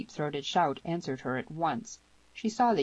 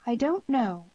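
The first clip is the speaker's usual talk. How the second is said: put-on high, louder young woman's voice; troubled girl; 8 semitones higher, 6 dB louder than usual. A narrator's reading. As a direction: answer high and distressed, in character.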